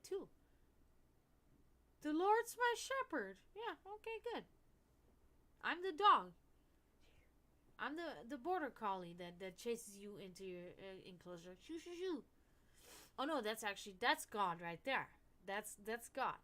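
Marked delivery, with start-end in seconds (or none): 2.0-3.4 higher, louder, slow sing-song sneer; mock the scripture in a sneering high voice; mocking quote. Sneering at religion, a mocking high scripture quote. 11.7-12.2 high, playful shooing calls; mock shooing. Playing the border collie, high playful shooing.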